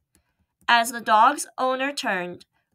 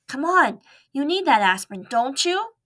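coaxing mouse; 5 semitones higher than usual. Acted.

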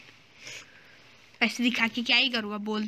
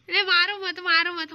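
higher-pitched begging; playful pleading; 5 semitones higher than usual. Real, not acted. Player begs friend not to hit him, playful pleading. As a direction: plead to be spared, half in fun.

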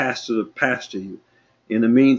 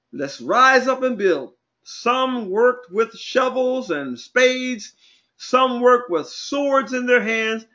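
raised pitch, drawn-out preacher delivery; preaching; 8 semitones higher, slower than usual. Real, not acted. Preacher telling the people about rebuilding, preaching. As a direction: preach it out, stretching the phrases. Preacher retelling Bible story.

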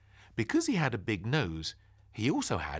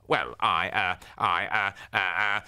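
spluttered; 5 dB louder than usual. Acted. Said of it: "he spluttered".

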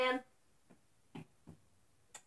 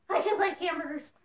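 puppet voice; 4 semitones higher, 5 dB louder than usual. Acted. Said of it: "Someone suggested that should be his voice".

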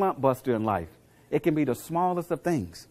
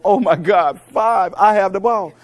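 loud, higher, excited player; excited girl; 5 semitones higher, 9 dB louder than usual. Retold or imitated. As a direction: squeal it like a kid finally getting the ball. Player counting passes, excited.

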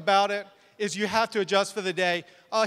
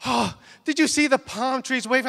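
higher, eager bridal question; excited bride; 4 semitones higher than usual. Retold or imitated. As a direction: imitate a bride gushing to her photographer. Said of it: "so excited".

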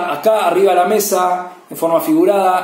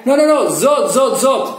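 retold shouting; 8 semitones higher, slower than usual. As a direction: shout the fix back at the reader. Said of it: "Empiezan a gritar".

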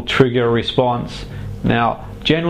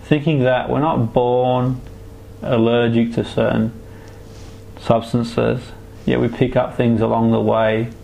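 right in your ear. Acted. Hypnotherapist guiding a relaxation trance.

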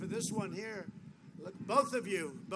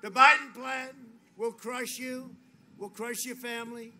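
loud, punchy attack line; shouted attack; 3 semitones higher, 11 dB louder than usual. Real, not acted. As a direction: hit it hard for the crowd.

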